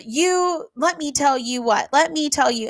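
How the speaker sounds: mild mock angry yell, finger in face; retold screaming. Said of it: "screaming at me".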